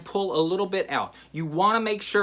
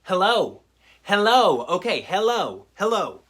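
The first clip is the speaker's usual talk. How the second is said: hammed-up happy greeting, a bit louder; mock cheerful hellos; 3 semitones higher, 5 dB louder than usual. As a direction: keep greeting them as if you misheard. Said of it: "I just start responding".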